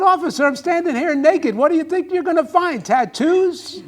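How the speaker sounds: loud, high disbelief at the cop; loud protest. Acted. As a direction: protest loudly to the officer. Naked man protests to cop.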